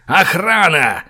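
high yelled call for guards; yelling. A narrator's reading. Boris summons the guards to the cell, yelling. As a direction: bellow for help down the corridor. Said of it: "заорал тот".

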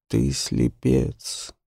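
doomed. Acted. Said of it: "сказала она обречённо".

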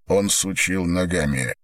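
usual speaking voice

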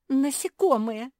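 very high, loud squeal. A narrator's reading. Naretta hearing about cockroaches, squealing. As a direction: shriek at creepy-crawlies. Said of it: "взвизгнула Наретта".

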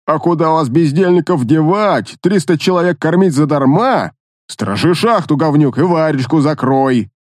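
a hint of a bossy officer; lightly voiced officer barking orders; army officer. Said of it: "Изобразил офицера собеседник".

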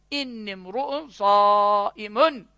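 very slow, stretched-out reply; Arabic recitation. Acted. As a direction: stretch each long vowel as in recitation.

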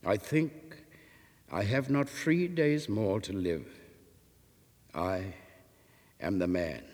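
low, soft, heavy confession; mournful dying man, understated; slowly and sadly. Acted. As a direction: let the truth fall quietly. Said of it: "Slowly and sadly Enoch answered".

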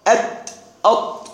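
أت، أط sounded slowly, plain t then emphatic ṭ; isolated consonant demo. Shown as a demonstration. Teacher comparing ta and ta' articulation for students, isolated consonant demo. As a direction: show أت with light t, أط with heavy ṭ. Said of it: "في المخرج وهو الطاء".

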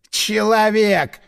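Человек drawn out slow and high in mockery; mocking drawl. A narrator's reading. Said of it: "с издёвкой протянул голос".

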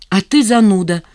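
sudden loud retort; flaring up. A narrator's reading. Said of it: "вскинулась она".

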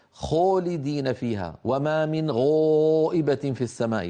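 خالدين with the kha rounded toward خو; rounded lips. Shown as a demonstration. A teacher imitating reciters who round their lips. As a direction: push the lips forward on خالدين and غائبة. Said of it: "فيزم ويضم شفتيه".

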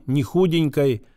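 ordinary delivery, nothing marked

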